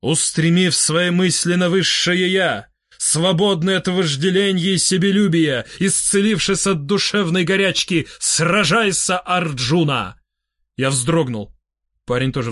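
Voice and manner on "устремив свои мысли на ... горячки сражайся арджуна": slow, measured declamation; expressive recitation. A narrator's reading. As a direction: recite it like solemn scripture. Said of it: "произнёс с выражением". (декламация с выражением)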